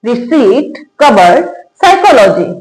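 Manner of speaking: रिसीट, कबर्ड, साइकोलॉजी, each without a P sound; silent P words. Shown as a demonstration. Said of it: "इसको क्या पढ़ेंगे".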